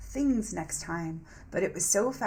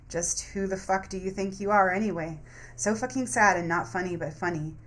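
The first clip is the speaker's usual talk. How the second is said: voicing the angry shadow.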